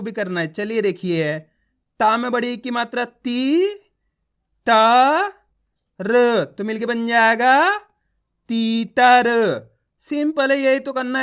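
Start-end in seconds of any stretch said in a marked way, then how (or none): 2.0-9.3 drawn-out syllables, then the blended word तीतर; spelling aloud for learners, each sound held long; letter-by-letter demo. Shown as a demonstration. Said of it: "एक ही अक्षर का उच्चारण कर रहा हूँ".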